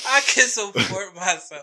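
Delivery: slow mocking repeat through laughs; laughing mimic. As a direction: mimic it while still laughing. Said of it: "fuck, I'm crying".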